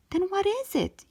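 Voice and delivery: high, demanding; yelled question. A narrator's reading. Mom yelling at child, high demanding question. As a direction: demand an answer. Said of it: "yelled Mom".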